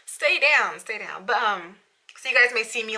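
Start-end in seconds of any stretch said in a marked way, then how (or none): 0.1-0.8 sharp, louder order to the shirt; telling her slipping shirt to stay down, a loud firm order; mock command. Scolding the shirt, firm and louder. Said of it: "and it's just like". 0.8-1.3 softer, resigned repeat of the order; grumbling at her shirt to stay down, quiet and resigned; muttered repeat. Retold or imitated. Half to herself, dropping much softer. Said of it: "and it's just like".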